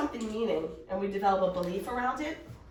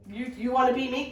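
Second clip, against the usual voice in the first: imitated cocky challenge, pitched up; mock-cocky question, a little raised; 4 semitones higher, 4 dB louder than usual. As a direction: toss it out as a cocky dare. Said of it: "Kind of, like, cocky".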